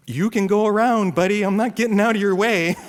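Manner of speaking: loud, high mock road rage; defiant driver. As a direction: stand your ground against a tailgater. Acts stubborn driver to tailgater.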